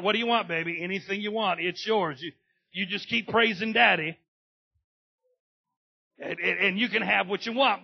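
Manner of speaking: loud, high, gushing daddy voice; hammed-up doting dad. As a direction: melt like a flattered father. Dad softened by praise.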